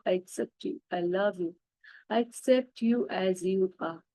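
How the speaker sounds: very slow repeated affirmation chant; mantra. Acted. Repeating love and acceptance to her reflection, slow mantra. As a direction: let each line sink in slowly.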